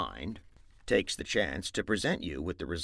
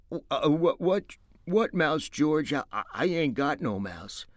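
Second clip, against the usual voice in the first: put-on higher, stammering childish voice; simple-minded Lenny; 8 semitones higher, 5 dB louder than usual. Lenny to George, stammering and faking innocence in a high voice. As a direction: play dumb, faking innocence.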